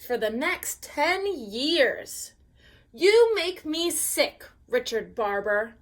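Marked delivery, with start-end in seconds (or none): 2.9-5.8 yelling. Acted. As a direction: yell at your brother. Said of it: "I yelled at him".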